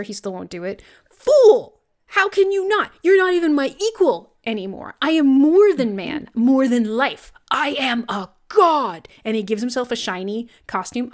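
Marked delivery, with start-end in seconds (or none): 1.1-9.1 high, loud gloating villain shout; cold rasping evil emperor. Retold or imitated. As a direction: bellow it like a triumphant god-emperor. Acting Skeletor's gloating rant.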